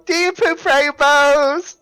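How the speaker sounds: high, slow wondering question; curious kid voice. Retold or imitated. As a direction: drag it out like a nosy child. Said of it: "What a lovely note to end on".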